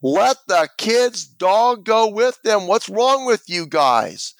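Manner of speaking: high, slow call from an onlooker; protesting bystander. Retold or imitated. Onlooker to the ambulance crew about the kid's dog, imitated protest. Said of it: "someone says".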